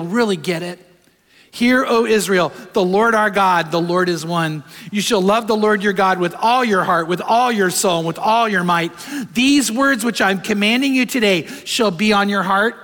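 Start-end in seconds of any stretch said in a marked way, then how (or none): 1.5-12.8 solemn scripture recital. Acted. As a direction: proclaim each line as sacred. Reciting the Shema again.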